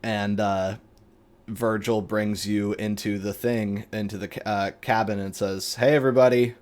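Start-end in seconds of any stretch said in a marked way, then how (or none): 5.8-6.5 a lightly voiced casual greeting; a hint of a laid-back guy; Virgil's voice. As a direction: toss out a breezy hello. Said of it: "he talks like this".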